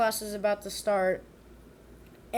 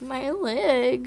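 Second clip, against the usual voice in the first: louder, fake-sobbing wail; mock crying; 3 semitones higher, 5 dB louder than usual. Mimicking the girl faking a broken leg, hammed-up sob. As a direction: ham up a fake injured cry. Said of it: "then she's like".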